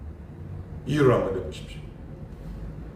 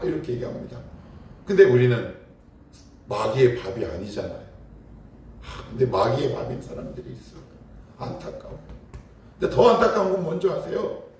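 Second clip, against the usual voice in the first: usual speaking voice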